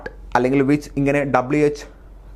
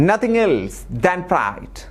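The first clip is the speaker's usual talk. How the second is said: slow dictation read; 4 semitones higher, much slower than usual. Shown as a demonstration. Reading out exam sentence.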